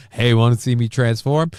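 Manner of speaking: lightly acted, punched-up pickup line; imagined transforming line. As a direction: play up a cheesy invitation. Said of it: "I'm, like, picturing saying".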